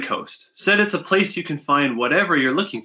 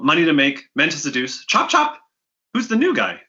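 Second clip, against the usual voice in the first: bossy dealer hurrying the slackers; brash fence woman; 2 semitones higher than usual. Acted. Fence Wathern hustles the bounty hunters, impatient brash voice.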